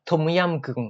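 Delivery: Thai dish name with a slight Japanese accent; lightly Japanese-accented Thai. Shown as a demonstration. Teacher adapting Thai food names for learners, slight Japanese accent. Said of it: "ต้องเปลี่ยนสำเนียงเป็นญี่ปุ่น ญี่ปุ่นนิดนึง".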